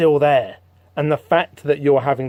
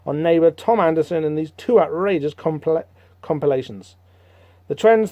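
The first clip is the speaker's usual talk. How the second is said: ad read. Acted. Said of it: "stick it in, press play".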